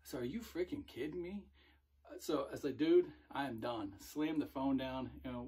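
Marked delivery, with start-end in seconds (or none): 0.2-1.4 pitched higher in exasperated disbelief; incredulous. Retold or imitated. Recruiter hearing it was an April Fools joke, exasperated disbelief. 2.8-3.9 louder, final and exasperated; fed up. Retold or imitated. Recruiter hanging up on the pranking recruit, loud and fed up.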